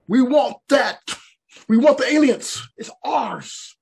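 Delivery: high-pitched, insistent claim; hammed-up demand, loud at first then easing; mock demanding. Americans fighting to own the alien, high mock demanding.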